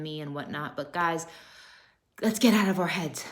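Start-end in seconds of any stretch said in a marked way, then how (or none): 2.2-3.2 whisper. Real, not acted. Sudden whispered urging.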